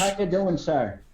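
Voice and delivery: lightly put-on Irish accent; an American trying an Irish accent; American's mock Irish accent. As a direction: greet them in an imitation Irish brogue. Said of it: "the American, uh, impersonation of a, an Irish person".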